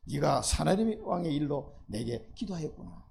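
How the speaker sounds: tender slow rereading; gentler repeat. Shown as a demonstration. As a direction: let it land kindly, as God pleased. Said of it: "preacher repeats verse gently".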